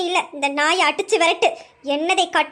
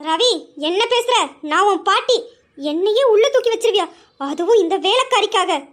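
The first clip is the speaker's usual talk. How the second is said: outraged; 2 semitones higher than usual. Acted. Grandmother outraged at grandson's threat.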